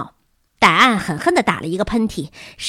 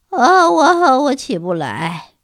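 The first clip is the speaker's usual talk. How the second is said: high, loud moan sinking into slow words; exhausted groan; 5 semitones higher, 5 dB louder, much slower than usual. A narrator's reading. Collapsed teacher answering Miss Peabody, exhausted groan. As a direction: wail it out, utterly drained.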